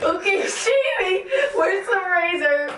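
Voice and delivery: giggling while talking; laughing. Real, not acted. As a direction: talk through laughter. Laughing through shaving.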